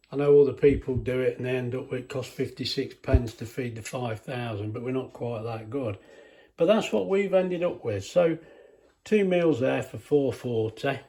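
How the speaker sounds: breathing heavily between words; hay fever breathing; heavy breathing. Real, not acted. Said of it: "sorry about the heavy breathing".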